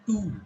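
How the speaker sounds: "two" with a drawn-out oo; long U. Shown as a demonstration. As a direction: hold the vowel in "two". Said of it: "Now this is long U".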